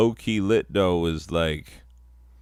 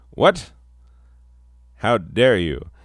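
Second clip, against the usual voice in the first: mock shock; 5 dB louder than usual. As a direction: yelp it in outrage. Mock outrage at English.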